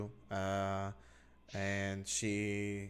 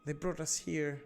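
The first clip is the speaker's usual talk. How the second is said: a higher, worried mother's voice; anxious captive mother; 6 semitones higher than usual. Acted. Captive mother tells the adventurers how she survived, higher and anxious. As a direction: hurry through her story, frightened.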